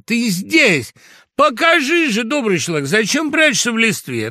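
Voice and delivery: high, loud, delighted coaxing; joyful exclaiming. A narrator's reading. Fox urging rooster out of the leaves, joyful exclaiming. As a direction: coax him out, full of joy. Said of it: "воскликнул радостно лиса".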